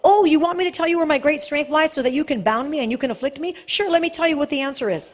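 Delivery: fast, breezy mock-naive voice; mock gullible reply. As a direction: rattle it off like a fool who suspects nothing. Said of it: "Who's gonna sit there and listen to this and go".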